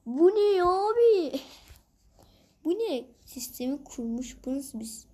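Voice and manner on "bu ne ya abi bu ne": high, slow amazed cry, louder; baffled. Real, not acted. Gamer shocked at a weird level, slow high amazement. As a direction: stretch out the disbelief.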